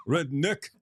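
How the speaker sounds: Redneck mimicked high as "red-NICK"; mocked pronunciation. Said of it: "who pronounced it like that?".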